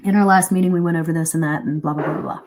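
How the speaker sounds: rattled off fast, trailing into blahs; brisk skim over old meeting business; quick recap. Shown as a demonstration. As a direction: rush through what everyone already knows. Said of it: "You say that part quickly".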